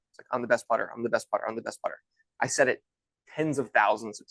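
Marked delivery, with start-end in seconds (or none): 0.3-2.0 recited mantra, trailing softer; rote repetition. Retold or imitated. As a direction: reel it off by rote, fading away. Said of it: "say over and over and over".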